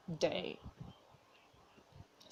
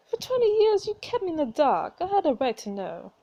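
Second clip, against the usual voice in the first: loud, high accusing outburst; acted reproach; 6 semitones higher, 4 dB louder than usual. Daughter confronts mother over the secret, reproachful. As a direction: protest with a raised voice.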